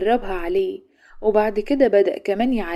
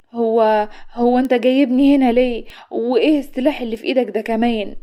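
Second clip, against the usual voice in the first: anxious; 2 semitones higher, 5 dB louder than usual. Acted. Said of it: "فسألته بقلق".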